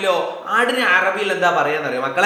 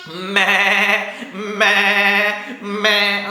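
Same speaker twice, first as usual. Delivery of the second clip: goat bleat; much slower than usual. Shown as a demonstration. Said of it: "എങ്ങനെയാ ആട് കരയാ?".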